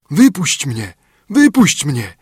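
calling out. A narrator's reading. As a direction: call out as a trapped spirit. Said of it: "Znowu głos zawołał".

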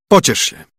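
lightly voiced consoling king; comforting king. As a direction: console the weeping princess.

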